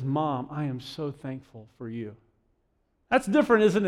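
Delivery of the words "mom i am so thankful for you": soft, slow, lower heartfelt thanks; lightly voiced grateful child, spoken slowly and softly; gently mean every word; thankful child. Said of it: "the child drops that lollipop and says".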